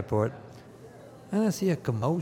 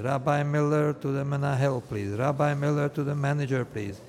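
loudspeaker page; 2 semitones higher, 6 dB louder than usual. Retold or imitated. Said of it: "I heard the loudspeakers".

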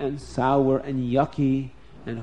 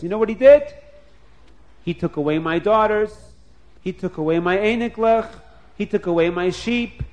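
lightly voiced, higher, sly complaining Lavan; scheming Lavan; 3 semitones higher, 4 dB louder than usual. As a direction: whine about being tricked to stir him up. Lavan writes a scheming letter.

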